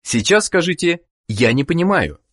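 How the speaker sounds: ordinary talk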